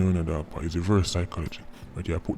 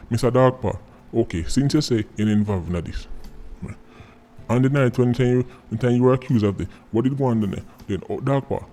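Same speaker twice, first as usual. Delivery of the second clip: mock interviewer; 3 semitones higher than usual. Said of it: "If you go sit down and question".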